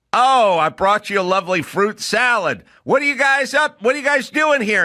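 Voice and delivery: bright eager entrance. Retold or imitated. Student entering a scene, high and cheery. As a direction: play a cheerful guest bursting in. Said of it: "I'd go".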